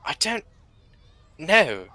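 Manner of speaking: high, puzzled character voice. Acted. Character puzzled by comprehension complaint.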